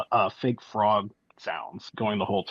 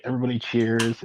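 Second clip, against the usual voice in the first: ordinary talk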